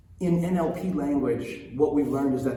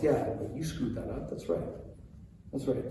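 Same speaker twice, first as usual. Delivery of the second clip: mock puffed-up parent; 7 dB quieter than usual. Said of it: "puffing up a little bit more".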